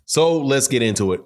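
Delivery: slightly wheezy from allergies. Real, not acted. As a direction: talk with a little raspy breath. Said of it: "if I sound a little wheezy in this video".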